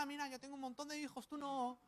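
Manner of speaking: high, fast, mocking taunt; a sneering brag in a high voice; mocking rival. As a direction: jeer like a smug rival wife. Rival wife mocking Ana.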